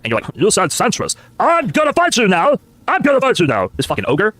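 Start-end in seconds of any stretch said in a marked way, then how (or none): 0.4-1.2 mock zombie. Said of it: "like a just vacuous zombie". 1.4-3.7 mock zombie, slow rising. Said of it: "like a just vacuous zombie".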